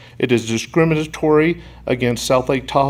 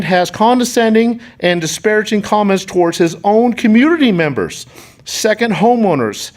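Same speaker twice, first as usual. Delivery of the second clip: indignant; 5 semitones higher, 3 dB louder than usual. Real, not acted. Accusing the councilman at the podium.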